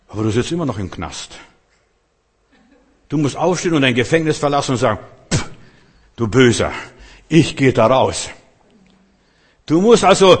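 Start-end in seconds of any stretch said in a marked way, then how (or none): 5.3-8.3 scoffing dismissal of the devil with a dismissive pff; mocking the devil. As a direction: brush the devil off, scornful. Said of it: "den Teufel verspotten".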